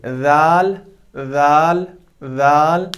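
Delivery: dhaal said with tongue tip at front teeth; clear ज़ाल की आवाज़; Arabic letter demo. Shown as a demonstration. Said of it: "देखिए".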